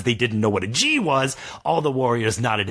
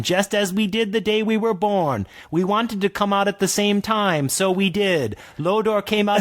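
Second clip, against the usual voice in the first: orc twins; 8 semitones higher than usual. Acted. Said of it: "speak in the voice of the twins".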